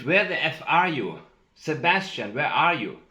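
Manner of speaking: loud, high imitation of her screaming; mock scream. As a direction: shout it out high, as the screaming she claims. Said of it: "I screamed".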